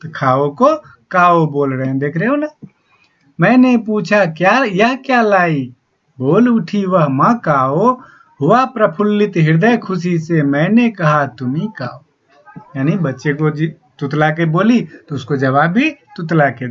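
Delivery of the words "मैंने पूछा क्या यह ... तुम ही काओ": poem recitation. Acted. Teacher reciting the poem lines.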